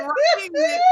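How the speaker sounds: high, loud disbelieving outburst; incredulous shout. Retold or imitated. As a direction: shriek at the ridiculous script. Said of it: "I said".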